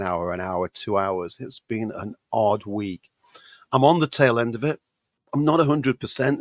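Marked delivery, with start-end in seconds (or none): 3.7-6.4 hoarse, rough voice from a cold; gravelly voice. Real, not acted. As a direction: talk through a gravelly throat. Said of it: "as you probably can tell by the gravelly voice".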